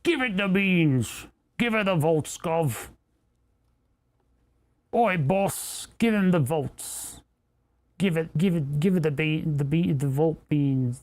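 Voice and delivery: slow, hammed-up mock Cockney accent; put-on accent. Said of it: "stop doing that accent".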